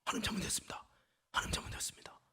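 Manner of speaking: hushed, meek apology fading into a whisper; cowed confession under the breath; startled apology. Retold or imitated. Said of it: "놀래가지고".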